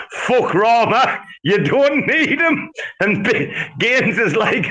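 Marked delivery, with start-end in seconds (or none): 0.1-2.7 high, slow mock voice for V; imitating V. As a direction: play V as a sly schemer, pitched well up.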